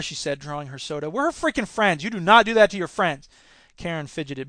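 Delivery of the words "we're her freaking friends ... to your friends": emphatic, raised-pitch reproach; indignant scolding. Acted. Susan scolds Karen over their friend, indignant. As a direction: lay down the rule of friendship.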